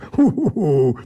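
short mocking chuckle; odd angel chuckling; creature's laugh. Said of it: "Smál se ten chlap".

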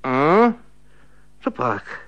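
drowsy female grumble; a hint of a sleepy old spinster; sleepy woman mumbling. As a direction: mumble it half-asleep. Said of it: "zabrebentil ženský hlas".

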